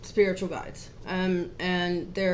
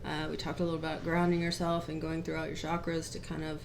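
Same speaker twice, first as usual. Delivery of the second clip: really quiet; 6 dB quieter than usual. Real, not acted. Co-host recapping last week's lesson, really quiet. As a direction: keep the volume right down as you explain. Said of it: "you're talking really quiet".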